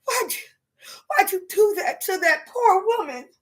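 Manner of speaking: imitating a scolding relative. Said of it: "they be like".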